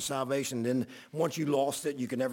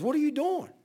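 startled yell; 12 semitones higher, 4 dB louder than usual. Retold or imitated. The man nearly run over.

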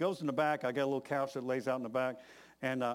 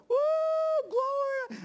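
high shout from far away; 7 dB louder, slower than usual. Retold or imitated. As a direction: call out across the woods. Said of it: "Marvin way down there saying".

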